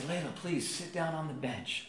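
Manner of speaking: put-on softly pleading with a toddler; coaxing parent. Dad asks his two-year-old to sit, coaxing.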